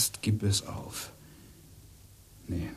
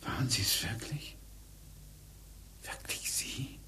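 slow unvoiced whisper of disbelief; husband overhears his wife's affair, whispering in shock; stunned whisper; 9 dB quieter, slower than usual. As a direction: breathe the names in shock.

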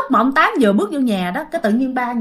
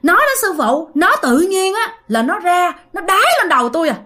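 higher-pitched acted grievance; possessed father answering; 6 semitones higher than usual. Possessed father explaining to ông Tám, acted aggrieved complaint. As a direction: complain in a raised, put-on voice. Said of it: "Ba mới nói rằng á là".

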